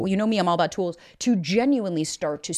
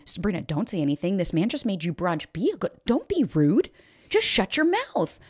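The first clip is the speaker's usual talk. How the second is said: imitating mom. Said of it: "My mom's voice came in".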